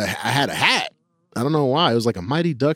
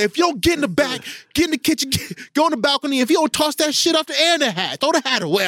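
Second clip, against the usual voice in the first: scolding mom; 13 semitones higher, faster than usual. Retold or imitated. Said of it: "She said".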